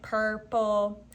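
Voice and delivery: lightly robotic, syllable by syllable. Shown as a demonstration. Teacher showing pupils how to say purple, lightly robotic. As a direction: break it into two even robot beats. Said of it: "Let's say it like a robot".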